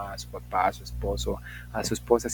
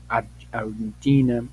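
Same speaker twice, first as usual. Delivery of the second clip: mock English accent; 5 dB louder than usual. Shown as a demonstration. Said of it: "el acento así como lo estaba yo haciendo".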